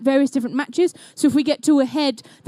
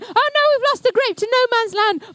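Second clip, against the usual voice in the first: mock dismay; 8 semitones higher than usual. Real, not acted. Commentator reacts to a lost grape.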